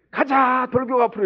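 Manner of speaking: hammed-up commander sending them forward; rallying battle cry. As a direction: call the troops into battle, mock-heroic. Acting mothers charging into exam war.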